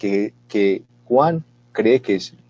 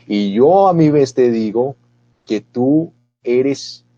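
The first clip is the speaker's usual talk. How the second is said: solemn Jesus; 3 semitones higher, 4 dB louder, slower than usual. Acted. Jesus answering Pedro solemnly.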